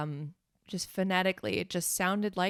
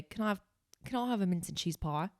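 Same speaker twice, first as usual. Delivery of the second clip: Kiwi accent; 4 dB quieter, faster than usual. Shown as a demonstration. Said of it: "I could say".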